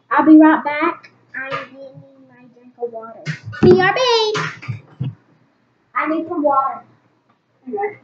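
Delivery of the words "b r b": perky spelled-out shout of brb; high excited call. Real, not acted. Girl telling viewers she'll be right back, chirpy. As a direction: toss it off brightly, higher.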